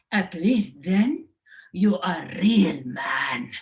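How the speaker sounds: exasperated mother scolding in Assyrian. Retold or imitated. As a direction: ham up a nagging mom, slow at the end. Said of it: "You say".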